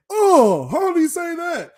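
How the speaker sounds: high, loud mocking cry; mock outraged fan; mocking a doubter. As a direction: mimic a scoffing fan in disbelief. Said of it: "and you say".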